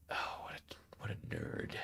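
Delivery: soft unvoiced whispered aside. Real, not acted. Streamer whispers about the nerdy officer. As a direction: whisper it fondly behind his back.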